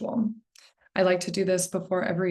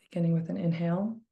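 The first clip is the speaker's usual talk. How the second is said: calm, gently lowered guiding voice; guided breathing; 4 dB quieter, much faster than usual. Shown as a demonstration. Meditation coach opening the three-breath ritual, calm guidance. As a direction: lead them quietly into the breath.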